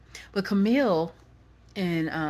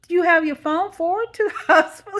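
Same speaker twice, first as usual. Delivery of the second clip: fast, high, loud questioning; acted-out bewilderment, rushed and high; confused caller; 11 semitones higher, 10 dB louder, faster than usual. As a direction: fire off a baffled question in imitation. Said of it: "She was confused".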